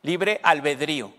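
"Libre albedrío" slowly, with a clear stressed í; measured "Libre albedrío", final í-o in two syllables; marked I. Shown as a demonstration. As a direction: say "Libre albedrío" deliberately, marking the í. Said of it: "se marca la I".

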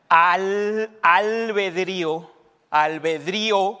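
"albedrío" drawn out very slowly, stress on the í. Shown as a demonstration. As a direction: sound out "albedrío" in pieces, leaning on í. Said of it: "con acento en la I".

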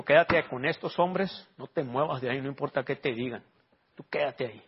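voz suave y grave, contenida; instrucción en voz baja. Retold or imitated. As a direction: cita una orden íntima del Señor. Retells the Lord's instruction to him. (mandato sereno, casi para sí)

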